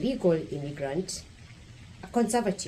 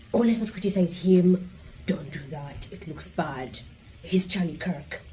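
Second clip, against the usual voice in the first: mock critic. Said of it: "If you think someone is beyond critique".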